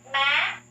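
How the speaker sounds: MÃ rising steeply to a high end, loudly. Shown as a demonstration. Teacher drills the fifth tone, MÃ high and rising. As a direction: push MÃ upward to the top. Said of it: "high raising tone".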